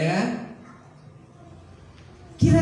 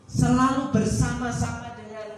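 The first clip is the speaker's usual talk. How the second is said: quoting God; slower than usual. Acted. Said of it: "Dia berkata".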